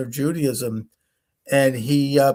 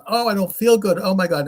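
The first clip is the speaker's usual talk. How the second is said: mild mock distress, a little raised; understated acted alarm; retold upset; 5 semitones higher than usual. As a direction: imitate a man starting to panic, without screaming. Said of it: "he's screaming and he's, like, so upset".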